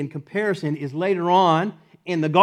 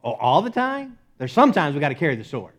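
object, then argue your case; protesting. Acted. Believer bargaining with God over the sword, protesting.

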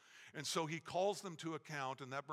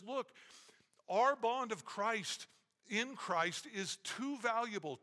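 earnest plea; 5 semitones higher, slower than usual. Retold or imitated. Paul pleading with quarrelling women.

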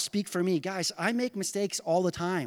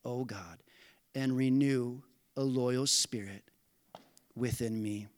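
solemn scripture reading; 3 semitones lower than usual. Acted. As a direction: read it as a humble plea to God. Reads psalm as David's prayer.

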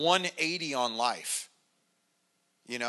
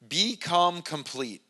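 BECOME COMPLETE said slowly and deliberately; slow down and weigh "Become complete"; deliberate, spaced-out "Become complete"; emphatic key phrase; 3 semitones higher, slower than usual. Shown as a demonstration.

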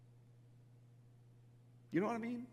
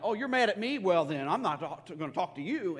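mock sulking God; 3 semitones higher, 6 dB louder than usual. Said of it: "God's up in heaven like".

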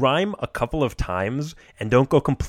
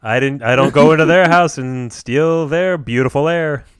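louder stand-up comic rant; lightly voiced Yogi doing observational comedy; 5 dB louder than usual. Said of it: "Yogi is doing stand-up".

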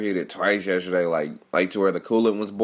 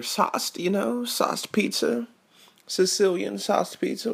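high, slow, sing-song pizza ad read; cheesy announcer voice; 11 semitones higher, 3 dB quieter, slower than usual. Pretend. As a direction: pitch it like a goofy commercial jingle. What the fuck am I even saying?.

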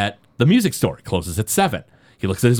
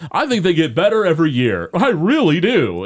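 fake sincerity; 3 semitones higher than usual. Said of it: "just the way he says that, he sounds so fake".

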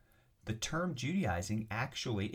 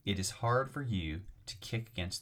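louder, ringing call of the name Saul; voice from heaven; 5 dB louder than usual. Retold or imitated. The Lord calling down to Saul on the road, louder call. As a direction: call out to Saul with urgent authority. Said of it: "I heard a voice saying to me".

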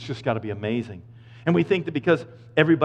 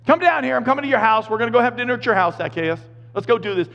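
high, loud friendly call up into a tree; beaming shout of welcome; 10 semitones higher, 5 dB louder than usual. Retold or imitated. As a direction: call him down like an old buddy. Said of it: "Jesus comes along and he's like".

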